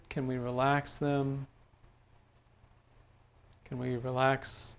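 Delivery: calm, unhurried meditation voice with long pauses; measured, soothing instructions, leaving space between phrases; guided meditation. Real, not acted. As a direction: guide them gently through a body scan. Leads a guided body-scan meditation.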